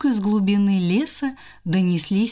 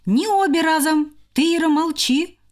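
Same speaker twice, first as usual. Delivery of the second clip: higher, firm; directing hamster; 6 semitones higher than usual. Acted. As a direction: point to each sister.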